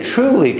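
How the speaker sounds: "Truly" leapt up high and pushed; urgent high "Truly"; grabbing attention. Shown as a demonstration. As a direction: hit "Truly" high to seize them. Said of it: "me grabbing your coattails".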